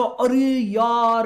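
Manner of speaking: long drawn-out mock groan; a slow, exasperated student exclamation, acted; imitated student dismay. Voicing student's exam panic.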